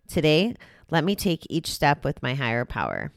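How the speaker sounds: measured, evenly phrased reading; reading aloud. Acted. Host reading the day's recovery passage to listeners, read-aloud delivery. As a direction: read out a daily reflection with care. Reads a daily meditation aloud.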